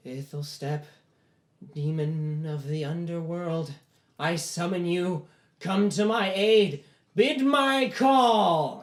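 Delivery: slow incantation building to a high, loud shout; yelled summoning. Acted. Boy summoning a demon of the underworld, yelled slowly. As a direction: draw out the summons, rising to a full yell. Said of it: "he, like, yells that out loud".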